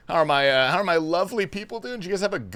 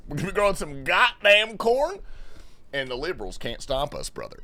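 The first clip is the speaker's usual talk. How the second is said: hammed-up redneck. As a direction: lean harder into the good-ol'-boy voice. Repeat in stronger put-on voice.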